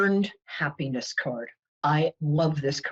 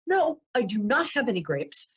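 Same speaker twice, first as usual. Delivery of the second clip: mock stern warning, rising high at the end; threatening bartender; 4 semitones higher than usual. Bartender threatening the duck, mock stern. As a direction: lay down the law, pitched up, comically. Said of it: "And the bartender says".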